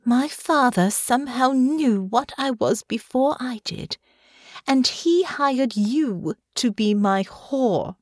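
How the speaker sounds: accusation held on a tight rein; controlled, bitter confrontation; tightly controlled anger. Acted. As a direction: press each word with restraint. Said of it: "in a low, tightly controlled voice".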